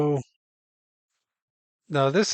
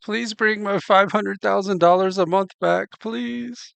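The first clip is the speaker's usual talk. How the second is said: mocking whiny begging; 5 semitones higher than usual. Host mocking the ex begging her for his lost income, whiny mock plea. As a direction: whine it like a broke ex begging for the money back.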